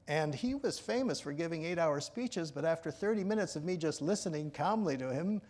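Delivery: usual speaking voice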